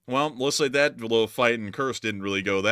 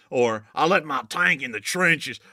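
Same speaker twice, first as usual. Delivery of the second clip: put-on Alabama accent. Host thanking a donor in a put-on Alabama accent. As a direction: lay the Alabama accent on thick. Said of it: "Had to let our true Alabama voice shine through".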